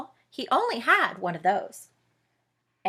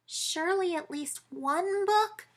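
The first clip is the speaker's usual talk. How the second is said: pleading mouse; 9 semitones higher, 6 dB quieter than usual. Acted.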